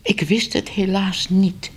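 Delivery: a flustered editor pleading innocence; nervous editor. Acted. Editor nervously excusing himself to Ellemeet. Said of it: "zenuwachtig op zijn nagels".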